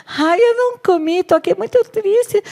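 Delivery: high whimpering sulky husband; whiny Ahab. Acted. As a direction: whine like a pouting child. Ahab whining to Jezebel.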